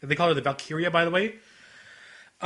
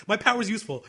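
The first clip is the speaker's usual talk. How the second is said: put-on higher-pitched quoted girl; Kotori; 4 semitones higher than usual. Quoting the character defending her power, mildly insistent. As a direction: lightly voice an insistent anime girl. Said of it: "she literally says".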